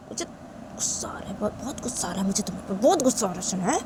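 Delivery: seethe under your breath, then rise at the end; angry Tisha, seething. Acted.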